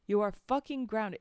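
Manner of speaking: loud angry father; shouting. Acted. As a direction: bark it like a furious dad. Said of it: "shouting now".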